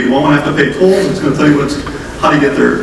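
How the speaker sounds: normal talking voice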